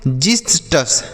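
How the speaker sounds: जिस्टस with a j sound at the start; uitspraak van जिस्टस. Shown as a demonstration. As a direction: say जिस्टस as "jis-tus", in two clear parts. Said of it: "क्या पढ़ेंगे बच्चों".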